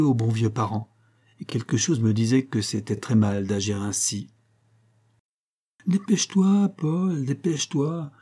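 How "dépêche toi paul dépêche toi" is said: high, urgent hurry; urgent child's urging. A narrator's reading. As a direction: push him to hurry, higher. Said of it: "répétait Adèle en m'excitant".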